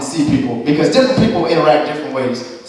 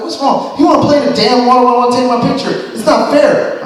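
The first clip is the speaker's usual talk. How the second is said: mock whining; 7 semitones higher than usual. Mocks sister's complaint about a kid.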